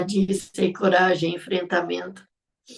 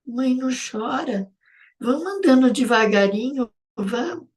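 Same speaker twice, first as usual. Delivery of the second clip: put-on child consoling; 5 semitones higher than usual. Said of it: "batia a mãozinha assim nas minhas costas".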